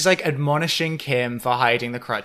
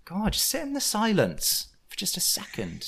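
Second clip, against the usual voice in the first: higher, louder snap at her; exasperated yell; 10 semitones higher, 3 dB louder than usual. Retold or imitated. Podcaster imagines telling Dana to stop and sit in the silence, exasperated. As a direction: burst out in mock exasperation.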